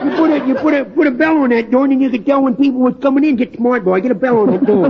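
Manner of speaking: put-on dopey punch-drunk fighter voice; washed-up boxer.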